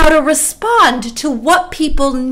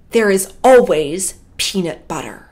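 imitated controlled anger, low; a touch of fury held under calm, pitch dropped; furious calm; 4 semitones lower than usual. Angry camp director answers the complainer, low furious calm. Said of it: "in the most furious, calm voice".

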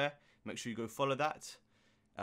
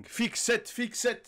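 mimicking the ad-lib; 8 semitones higher, slower than usual. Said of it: "And the Z acting".

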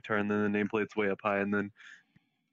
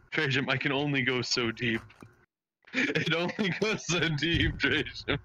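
deep voice; 2 semitones higher than usual. Shown as a demonstration. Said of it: "Just talk deeper".

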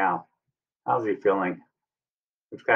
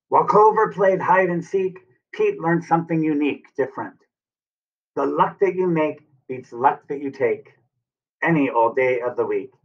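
put-on lilting rhyme for young children; storybook read-aloud; 5 semitones higher than usual. A narrator's reading. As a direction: read the verse brightly to little ones. Reading closing rhyme to children.

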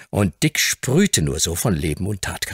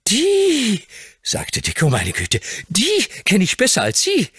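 put-on much higher, amazed boy's voice; stunned boy. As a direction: blurt out the recognition. Dick recognises the woman.

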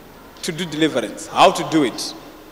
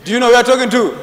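louder, fast insistent question; pressing demand; 4 semitones higher, 4 dB louder, faster than usual. Real, not acted. Prophet demanding to know who she addresses, insistent. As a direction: demand an answer right now.

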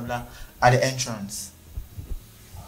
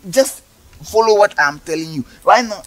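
much higher, heated scolding; angry rant; 8 semitones higher, 3 dB louder than usual. Acted. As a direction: blow up at the customer. Officer shouting at pleading customer.

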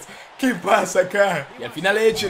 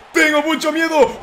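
higher, laughing half-shout of fake fear; laughing mock fear; 6 semitones higher, 4 dB louder than usual. Real, not acted. Gamer hamming up his fear to viewers, laughing yell. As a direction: crack up while yelling how scared you are. Gamer fears losing the match.

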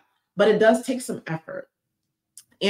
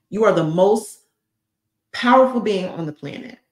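whispered reveal; 2 semitones higher, 4 dB louder than usual. Acted. Dramatic reveal to viewers.

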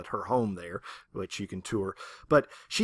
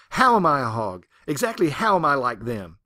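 angry retort; 7 dB louder than usual. Retold or imitated. Ruby raging at God.

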